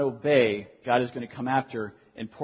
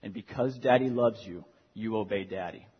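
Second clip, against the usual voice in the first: gentle fatherly firmness. Retold or imitated. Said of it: "I'll say".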